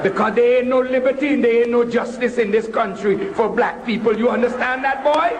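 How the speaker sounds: insistent West Indian mother; West Indian accent. Retold or imitated. Mother instructing her son on the Pledge, insistent West Indian accent. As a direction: drive the lesson home with a West Indian lilt. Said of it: "in her beautiful West Indian accent".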